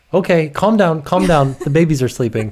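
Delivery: a hint of a little boy hushing; mild mock kid voice, half laughing; imitating toddler. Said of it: "He goes".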